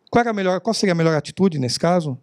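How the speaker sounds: asked as a rhetorical flourish, not waiting for an answer; rhetorical question. Shown as a demonstration. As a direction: toss it out as rhetoric. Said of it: "Não é retórica". (pergunta retórica)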